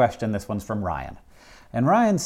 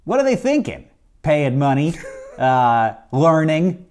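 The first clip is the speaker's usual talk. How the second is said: mock outrage; 3 semitones higher, 5 dB louder than usual. Mock outrage at honest students.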